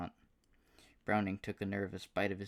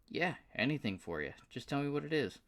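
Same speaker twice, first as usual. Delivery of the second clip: high, excited southern drawl; a delighted good-old-boy southern twang; 8 semitones higher, 4 dB louder than usual. Acted. Paul thrilled to hear from Aston, southern drawl. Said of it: "with a surprisingly thick southern drawl".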